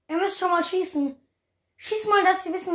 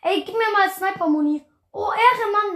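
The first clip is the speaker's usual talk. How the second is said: high, loud excited call; 4 semitones higher, 6 dB louder than usual. Real, not acted. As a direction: hype it up loudly. Excited in fight.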